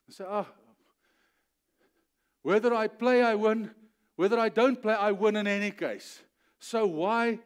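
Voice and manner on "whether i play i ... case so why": loud, insistent sermon delivery; forceful preaching. Real, not acted. Preacher declaring a win in any case, forceful. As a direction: declare it with bold certainty.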